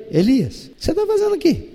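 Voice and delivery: soft, subtle, caring ask; gentle question. Retold or imitated. God gently asking Elias in the cave, soft. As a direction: invite him to open up gently. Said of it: "Deus chega com sutileza".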